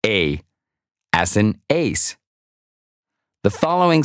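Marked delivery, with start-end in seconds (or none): 0.0-0.4 A drawn out as the long ay of ace, for the learner to repeat; vowel sound demo. Shown as a demonstration. Teacher sounds out A as in ace. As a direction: say A slowly as in ace for the class. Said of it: "The first symbol is pronounced".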